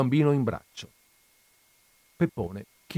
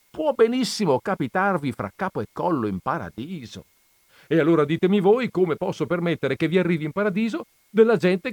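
rising, louder, speeding up in protest; wheedling argument; 6 semitones higher, 6 dB louder than usual. A narrator's reading. Don Camillo pleading with Jesus over the name Lenin, heated. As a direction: talk him round, getting worked up. Priest pleads his case.

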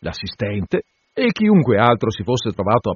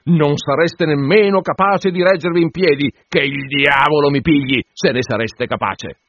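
put-on drunken groom getting heated, higher and louder; 5 semitones higher, 4 dB louder than usual. Tipsy groom heating up, arguing with the curate. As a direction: rise into a tipsy, indignant rant.

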